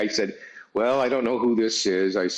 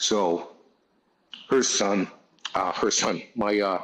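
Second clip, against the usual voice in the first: slow, halting, emotional, choked-up stumbling. Talking about a daughter's family, getting a little emotional. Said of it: "sorry, I got a little emotional here".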